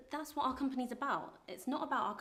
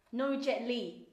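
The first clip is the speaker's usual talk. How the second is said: louder, flat ban; firm no; 2 semitones higher, 8 dB louder, much slower than usual. Acted. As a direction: shut the idea down hard. Pointing at board.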